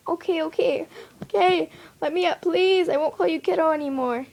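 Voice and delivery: high, urgent giving-in; exclaimed. A narrator's reading. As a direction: beg to be let up, fast at the end. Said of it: "Jack exclaimed".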